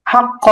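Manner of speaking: হা, ক joined with no echo or bounce; steady, unbounced ক; natural pronunciation. Shown as a demonstration. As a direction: say ক plainly after হা, without qalqalah. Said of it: "স্বাভাবিক উচ্চারণ করতে হবে".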